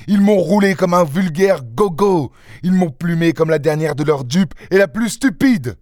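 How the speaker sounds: indignant anger. Acted. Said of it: "Une réelle colère l'agitait".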